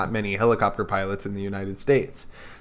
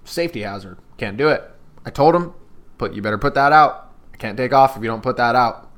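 a light take on the pilot's way of talking, lifting into his warning to put the cigar out; imitating Robert's voice. Pilot telling a celebrity to put out his cigar, lightly voiced. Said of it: "This is what he talked like".

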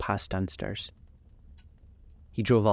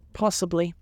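high, weary sighed reply; sighing; 9 semitones higher than usual. A narrator's reading. World-weary lord answering the young man, mild sigh. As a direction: let it out on a tired sigh. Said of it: "he sighed".

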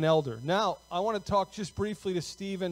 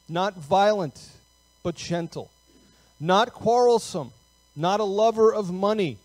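firm, measured Bible reading, slightly raised; scripture reading; 5 dB louder than usual. Real, not acted. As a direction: read the verse out deliberately to the congregation. Reads scripture aloud to congregation.

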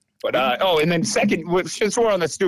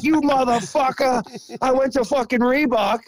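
higher, angry dad tearing into him; retold rant, a furious father's voice; father yelling; 9 semitones higher than usual. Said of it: "giving me the riot act".

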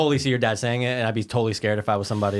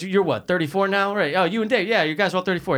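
imitating stern dad; 6 semitones higher than usual. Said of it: "He goes".

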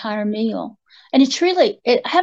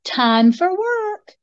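slow, high voice giving a command; commanding a smart speaker; 8 semitones higher, much slower than usual. Retold or imitated. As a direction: slowly announce the command like she does. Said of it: "She'll just go".

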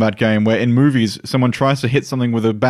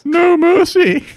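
high, slow battle cry; rousing war chief; 4 dB louder, slower than usual. Acted. The speaker's in-character intro.

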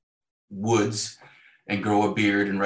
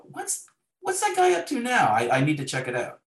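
imitating an eager producer; 9 semitones higher than usual. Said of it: "you know".

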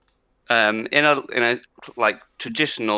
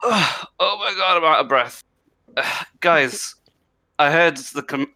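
higher, puffing and hurried; out of breath dwarf; 4 semitones higher than usual. Acted. Caesar Chameleon on his ladder telling the party, high winded voice. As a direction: play a winded little dwarf gasping out news. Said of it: "stands on top of his ladder and goes".

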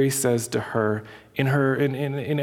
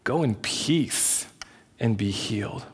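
slow, lingering tenderness; tender; 2 semitones lower, slower than usual. Retold or imitated. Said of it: "very tenderly".

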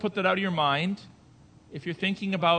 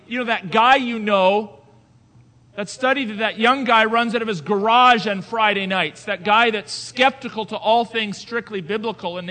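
forceful preaching; 3 semitones higher, 7 dB louder than usual. Acted. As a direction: thunder it from the pulpit.

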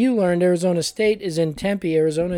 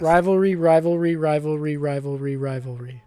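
five times fast; 4 semitones lower, 4 dB quieter than usual. Shown as a demonstration. Co-host dared to say rivalry five times, run-on fading repetition. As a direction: run "Rivalry" in one string, fading away. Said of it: "Say rivalry five times fast".

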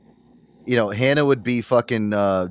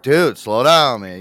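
slow, drawn-out plea to ease up; worn-out plea; 7 dB louder, much slower than usual. Retold or imitated. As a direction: beg your hyper friend to slow down. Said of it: "you'd be like".

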